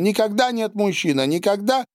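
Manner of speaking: high, strangled insistence; choked cry. A narrator's reading. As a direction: force it out through a tight throat. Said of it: "выкрикнула она сдавленным голосом". (сдавленный выкрик сквозь слёзы)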